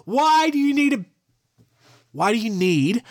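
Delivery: incredulous outburst. Real, not acted. Outraged at a bear at a gas station.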